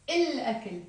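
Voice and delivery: الأكل with a clear long L; pronounced L. Shown as a demonstration. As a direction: sound the article's L in الأكل. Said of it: "we do pronounce the l".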